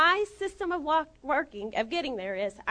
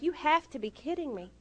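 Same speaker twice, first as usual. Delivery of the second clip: restrained incredulity, stress on HAVE; softer, contained "You have to be kidding me"; retold disbelief; 5 dB quieter than usual. Retold disbelief, first milder take.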